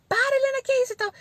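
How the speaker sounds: very high-pitched mock scolding cry; imitated parent's yell. Mother tempted to yell at fighting daughter, high mock shout. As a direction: act out the urge to yell at a child. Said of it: "dar uns gritos".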